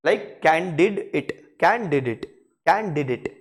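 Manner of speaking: candidate broken into can did it, light final dit. Shown as a demonstration. Teacher breaks down candidate syllable by syllable. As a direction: say can did it as one word. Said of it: "practice saying the word quickly".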